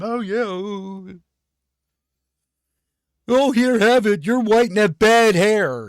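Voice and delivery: high, eager gushing, handing it over; mock eager fan voice. Mocking voters, a high eager gushing fan voice. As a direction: gush it out like a starstruck fan giving everything away.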